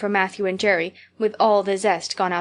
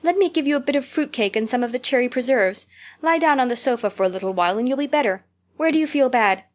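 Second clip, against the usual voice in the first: higher, anxious coaxing; 3 semitones higher than usual. Acted. Anne coaxing her sick friend to lie down. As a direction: fuss over her anxiously.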